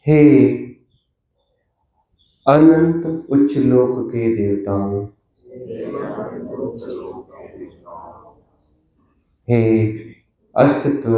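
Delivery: solemn invocation with long pauses between phrases; measured, reverent prayer. Real, not acted. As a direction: call on the divine phrase by phrase, leaving silences.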